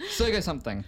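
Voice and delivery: laughing. Shown as a demonstration. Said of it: "Just say it really fast".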